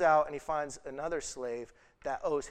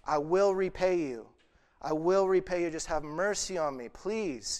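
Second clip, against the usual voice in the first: pleading, pitch raised, louder on the promises; a mock plea for mercy from a groveling slave; begging slave; 3 semitones higher, 3 dB louder than usual. Preacher voicing the slave begging the king, pleading. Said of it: "He's like".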